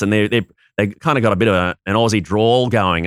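a light Australian drawl, lightly put on; Aussie drawl. Shown as a demonstration. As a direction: let the Australian vowels stretch a little, in a hint of an Aussie drawl. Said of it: "which you nailed".

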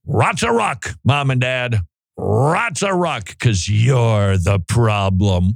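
mocking kids' lingo. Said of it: "When your kids learn the lingo".

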